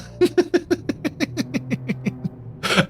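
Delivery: long, breathy, high laughter; a long airy laugh at a viewer's joke. Real, not acted. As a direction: wheeze with amusement.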